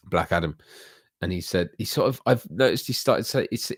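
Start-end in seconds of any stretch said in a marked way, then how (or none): 3.5-3.7 imitating him in a slow, exaggerated American accent. Streamer imitating the actor's catchphrase, mock American accent. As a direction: drawl it out like an American movie star. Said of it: "he says with a very American accent".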